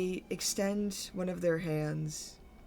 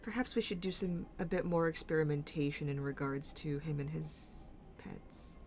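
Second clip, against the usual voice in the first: theatrical lilt with hushed pauses; insinuating boss; 2 semitones higher than usual. Acted. Mauve turns to the group, insinuating with deliberate pauses. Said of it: "kind of goes".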